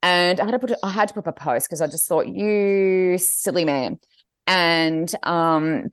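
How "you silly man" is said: slow, drawn-out exasperated scolding; slow, mildly despairing telling-off; mock scolding. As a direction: draw it out in fond exasperation. Mock scolding of her husband.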